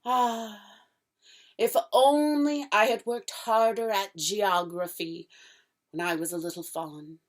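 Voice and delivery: a touch of wistful regret in the faun's voice; melancholy. Acted. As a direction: sigh over lost schooldays. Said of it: "in a rather melancholy voice".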